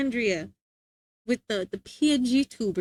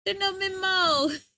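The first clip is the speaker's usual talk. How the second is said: put-on kid brother; 6 semitones higher than usual. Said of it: "And then getting mad".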